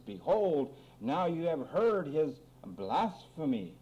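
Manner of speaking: slow, weighty Bible reading; scripture reading. A narrator's reading. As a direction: draw out the verse with deliberate pauses. Reads scripture aloud to congregation.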